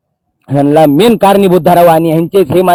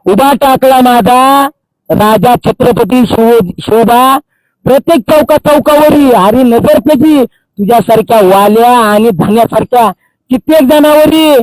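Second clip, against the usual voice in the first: slow, higher, rising praise recitation; slow ringing tribute to Shivba; declaimed verse; 3 semitones higher than usual. Acted. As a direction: recite it like a stage poem to the king.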